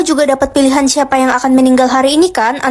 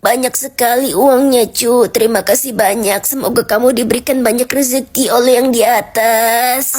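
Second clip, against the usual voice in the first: put-on old man voice; 4 semitones lower than usual. Grandpa thanks buyer.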